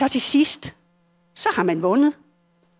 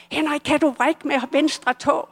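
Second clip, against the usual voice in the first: raised, higher call to a patient; doctors calling out; 5 semitones higher than usual. Retold or imitated. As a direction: call his name to get a response from the bed. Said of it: "begynder lægerne at råbe". (let lidt højere råb til patienten)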